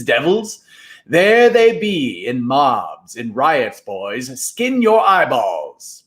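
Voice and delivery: a lightly voiced, slow, grand spooky showman; showman Moundshroud. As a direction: draw it out slowly like a carnival barker of ghosts. Moundshroud showing the boys witches.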